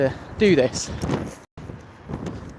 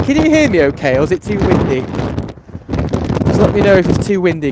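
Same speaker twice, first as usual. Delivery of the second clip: raised voice against the gusts; shouting over wind; 5 dB louder than usual. Real, not acted. Asks if heard in wind.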